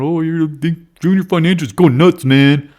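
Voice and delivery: high, loud mock hype voice; mocking a hyped trader. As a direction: ape an overexcited follower. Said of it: "a lot of people going".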